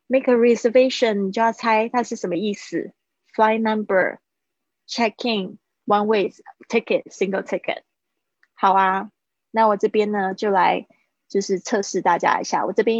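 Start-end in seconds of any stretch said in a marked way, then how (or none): 0.1-7.8 quiz prompts. Shown as a demonstration. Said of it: "然后给自己猜".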